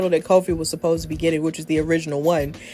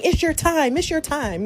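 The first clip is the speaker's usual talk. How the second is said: imitating Big E; 8 semitones higher than usual. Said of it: "Big E kept saying".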